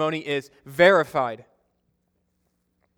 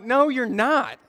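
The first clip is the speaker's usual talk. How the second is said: higher, insistent no; flat denial; 8 semitones higher, slower than usual. Retold or imitated. Brother arguing over the fake phone call, raised. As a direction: shut down his story. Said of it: "And I'm like".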